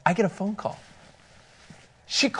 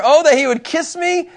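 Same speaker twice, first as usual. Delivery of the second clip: higher, yearning read of "Oh, that he would kiss me"; longing; 8 semitones higher than usual. Shown as a demonstration. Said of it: "Like, this right here".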